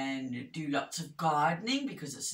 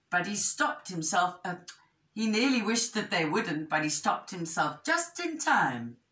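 animated picture-book narration; measured, expressive storytelling; story reading to children; 4 semitones higher, 4 dB louder than usual. A narrator's reading. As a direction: tell it clearly to young listeners.

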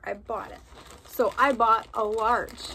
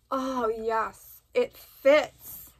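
excited; 2 semitones higher, 5 dB louder, much slower than usual. Real, not acted. Delighted the shirt fits.

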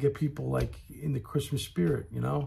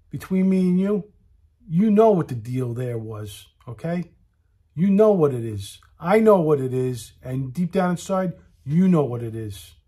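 louder, pressing the crowd; loud knowing rant; 5 dB louder than usual. Real, not acted. Comedian telling the crowd what the restaurant's deal was, loud. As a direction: insist everyone knows the truth.

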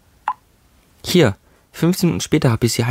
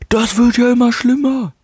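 mock exasperation; 13 semitones higher, 3 dB louder than usual.

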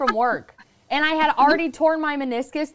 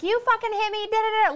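mock outraged; 9 semitones higher than usual. Imagined yelling at driver.

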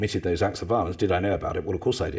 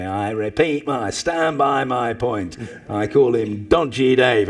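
Dennis Skinner; 3 semitones higher, 5 dB louder, slower than usual. Retold or imitated. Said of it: "Dennis sort of saying to me".

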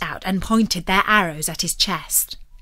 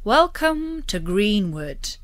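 slow, gracious host's greeting; courteous welcome; slower than usual. A narrator's reading. Robin greets the knight at his table, slow and courteous. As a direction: welcome him in like an honoured guest.

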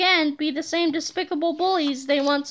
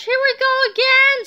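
high, loud dismayed yell; scream; 9 semitones higher, 6 dB louder than usual. A narrator's reading. Harold facing another chase, screaming. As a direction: yell it out in alarm. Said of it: "screamed Harold".

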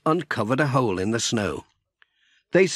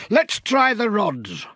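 raised, slow character voice; Alf's voice; 9 semitones higher than usual. Acted. Narrator voicing farmer Alf to Pat. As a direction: read Alf's line higher and slower. Character dialogue in read story.

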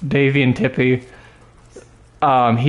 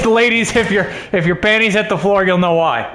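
mock sexy voice; 7 semitones higher than usual. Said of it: "a dead sexy voice".

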